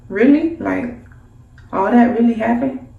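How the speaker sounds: aunt acting surprised; mock-shocked aunt. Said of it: "look a little shocked".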